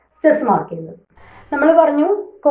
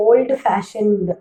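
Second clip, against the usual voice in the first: ഓൾഡ് ഫാഷൻഡ് said slowly with ഫാഷൻഡ് stressed; stress on fashioned; much slower than usual. Shown as a demonstration. Teacher models ഓൾഡ് ഫാഷൻഡ് with stress on ഫാഷൻഡ്. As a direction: put the weight on ഫാഷൻഡ് in ഓൾഡ് ഫാഷൻഡ്. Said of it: "ഫാഷൻഡ് എന്ന സ്ഥലത്താണ് നമ്മൾ stress".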